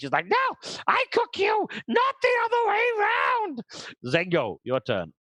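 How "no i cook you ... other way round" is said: crazed, manic evil villain voice, very high. Voicing an enemy who was just hit in the face: manic evil villain voice. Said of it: "manic, evil look on her face".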